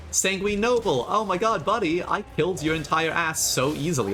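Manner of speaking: put-on high, gushing hello to an old foe; excited, high-pitched hailing; mock-delighted greeting. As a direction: greet the enemy like a long-lost buddy. Hailing a familiar boss as bestie.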